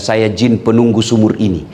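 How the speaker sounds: a lightly voiced jinn complaining. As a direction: speak as a fed-up jinn guarding the well. Jinn speaks from the well.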